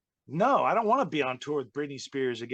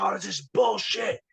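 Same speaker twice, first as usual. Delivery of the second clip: imitating angry Booker; 8 semitones higher than usual. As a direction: whine it out like a sore hothead. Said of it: "He's like".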